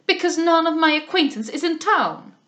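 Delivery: put-on high, loud French-accented explanation; foreign accent. A narrator's reading. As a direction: protest as the flustered Frenchwoman. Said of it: "There was something foreign in her accent".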